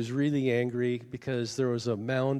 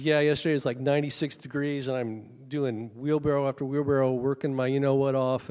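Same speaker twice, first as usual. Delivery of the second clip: loud, worked-up retelling of a grievance; retold anger; 6 dB louder than usual. Angry husband recounting his hot day of hauling rocks, mock fuming. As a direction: imitate a man still fuming, raised voice. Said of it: "red-faced mad".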